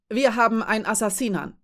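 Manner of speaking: a fierce mock yell; shouting across deck. Mother shouting from across the deck, loud. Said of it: "schrie Uschenka".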